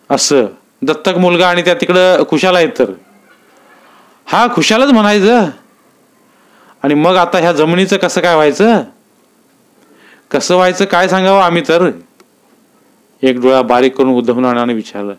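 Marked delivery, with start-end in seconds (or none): 0.1-11.9 higher village voices; rustic dialogue. Acted. Villagers discuss the land, higher rustic voices. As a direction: trade gossip plainly.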